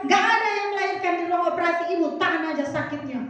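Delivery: rapid-fire imitated brush-off; curt nurse. Nurse refusing a woman in labour, imitated fast, curt. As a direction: rattle off a cross nurse's refusal. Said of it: "Susternya pun ketus-ketus, judes-judes".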